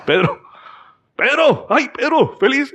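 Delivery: high, squealing with delight at the door; overjoyed servant girl. Acted. Servant girl Rode hearing Peter at the door, squealing excitedly. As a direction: shriek his name with giddy joy.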